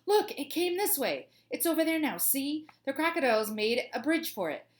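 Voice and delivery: high-pitched alarm cry, easing toward the end; excited high yell that settles as it explains; screaming. A narrator's reading. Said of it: "he heard a wild boar scream".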